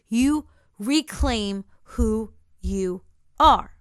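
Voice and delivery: firm, deliberate words with weighty pauses; emphatic, solemn charge. Retold or imitated. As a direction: space out "who you are" word by word. Shadow's charge builds to emphasis.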